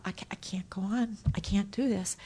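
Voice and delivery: hushed I-can't-go-on; soft unvoiced despair; despairing whisper. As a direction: breathe it out, defeated. Her despairing thought.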